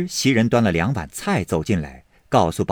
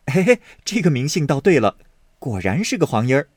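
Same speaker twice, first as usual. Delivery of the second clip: quick amused chuckle into the line; light amused teasing, brisk; chuckling; 4 semitones higher, faster than usual. Acted. Baoyu teasing the maid about her name, chuckling. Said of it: "宝玉笑道".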